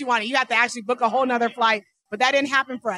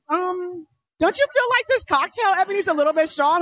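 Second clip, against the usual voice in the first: Judy's question, pitched up; high mock Judy voice; 6 semitones higher than usual. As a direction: lightly mimic a tipsy friend, higher. Judy voiced in retold story.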